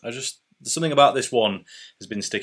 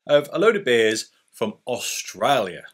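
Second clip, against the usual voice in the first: put-on a shaky stab at an Australian accent, pitched up at the start; bad Australian accent; 2 semitones higher than usual. Telling viewers about his Australian beers in a bad Australian accent. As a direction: put on a poor Aussie accent for a laugh. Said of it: "That was a terrible accent".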